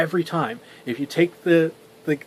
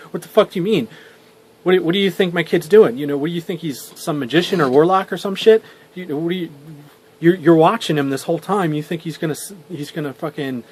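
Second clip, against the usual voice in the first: mild mock outrage, a bit louder in bursts; flustered angry dad; 3 semitones higher, 4 dB louder, faster than usual. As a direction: imitate a worked-up dad challenging a clerk. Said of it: "gets, like, flustered".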